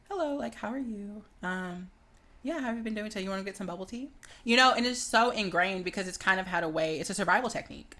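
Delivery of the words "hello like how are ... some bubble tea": white voice. Acted. Code-switching at work or school, polite white voice. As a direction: put on a calm, non-aggressive work voice. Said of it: "the white voice, the calm, not being aggressive".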